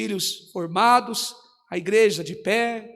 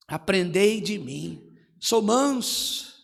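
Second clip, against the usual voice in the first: gentle; 5 semitones lower, 7 dB quieter, slower than usual. Shown as a demonstration.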